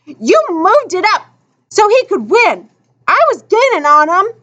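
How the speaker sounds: high, indignant complaint; angry protest. A narrator's reading. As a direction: accuse them of rigging the race. Sore loser accuses the thread holders.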